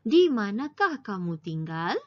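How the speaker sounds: "Di manakah kamu tinggal" rising at the end; questioning intonation. Shown as a demonstration. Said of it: "intonasi pun seperti intonasi bertanya". ("Di manakah kamu tinggal" dengan intonasi bertanya)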